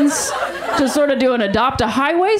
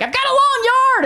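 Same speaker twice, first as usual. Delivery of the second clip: mock friend voice; 11 semitones higher than usual. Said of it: "she was like".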